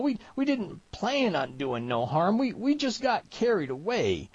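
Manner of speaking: high-pitched, stammering backwoods plea; desperate begging. A narrator's reading. Trapper on his knees making excuses, frightened begging. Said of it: "he begged".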